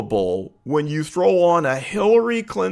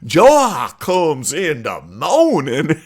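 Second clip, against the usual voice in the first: slow, put-on Black church preaching accent; drawn-out fake preacher accent; mock church Black accent; 5 dB louder, much slower than usual. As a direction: imitate a politician faking a Black church accent. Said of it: "her throwing on the".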